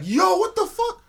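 stunned disbelief. Retold or imitated. Hearing his friend's trip story, slow high stunned cry. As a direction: stretch out the shock as you relive it. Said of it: "I was like".

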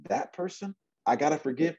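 high, incredulous protest. Acted. Peter protesting to the Lord, incredulous.

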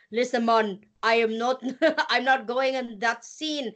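a light, badly faked Jamaican accent. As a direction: toss off a hammy Jamaican accent as a joke. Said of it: "horrible impression of a Jamaican accent".

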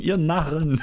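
high, loud gloating villain cry; mustache twirling villain. Pretend. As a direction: cackle it at the fools below. Jumping off Titanic, taunting others.

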